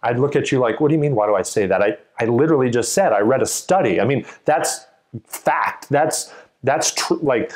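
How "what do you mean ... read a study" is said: exasperated. Shown as a demonstration. Speaker annoyed at being asked why, exasperated. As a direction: brush off a silly question.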